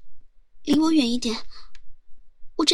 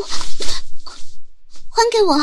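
drawn-out wail; 9 semitones higher, 10 dB louder, much slower than usual. Acted. Chest wrap taken, drawn-out wail.

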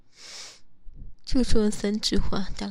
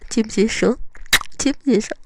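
insistent; 6 dB louder than usual. Acted. Repeatedly pressing for answer.

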